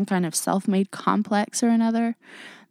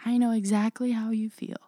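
mocking quote; 4 semitones higher than usual. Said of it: "because I hate that phrase".

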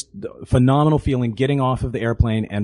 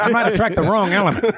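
lightly put-on Virginia accent; 5 semitones higher, faster than usual. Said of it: "That's my Virginia accent".

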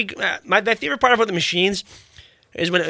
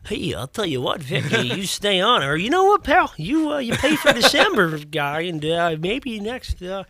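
salesman voice. Retold or imitated. Imitating customer service rep again.

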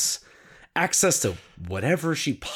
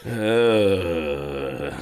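put-on very old man; 7 semitones lower than usual. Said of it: "like that, right?".

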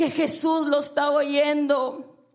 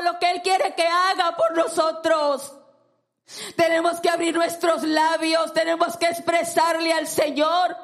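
raised preaching voice, urging the church. Acted. Pastor urging the congregation, in a raised preaching voice. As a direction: press the congregation to cry out.

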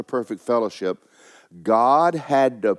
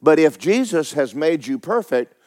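raised, forceful preacher's delivery; emphatic preaching; 6 semitones higher, 5 dB louder than usual. Acted. Preacher telling congregation Jesus made them perfect, emphatic preaching. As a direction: preach it with punched key words.

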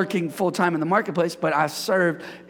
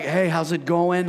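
slower, relaxed greeting; chill. Shown as a demonstration. Pastor contrasting Christian's energy with chill mode, relaxed greeting. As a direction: take it down to an easy, unhurried hello. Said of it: "just the chill".

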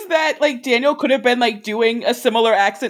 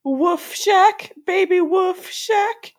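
silly catchphrase; 8 semitones higher, much slower than usual. Pretend.

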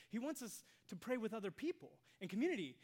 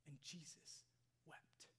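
very soft, low, near-whispered reverence; hushed solemnity; 3 semitones lower, 13 dB quieter, slower than usual. Real, not acted. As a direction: let it sink almost to a whisper. Solemn telling of Jesus weeping.

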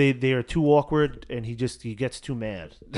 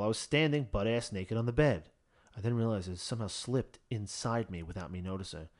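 romance novel voice; 4 semitones lower, 6 dB quieter than usual. Acted. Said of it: "good romance novel voice going until".

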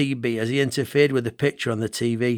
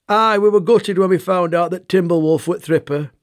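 put-on thick Yorkshire accent; 4 semitones higher, 4 dB louder than usual. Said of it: "in his thick".

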